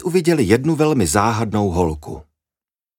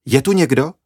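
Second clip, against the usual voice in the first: called out; 5 semitones higher than usual. Acted. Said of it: "vykřikla".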